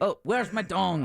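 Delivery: put-on Scottish accent. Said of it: "how Deb's Scottish is".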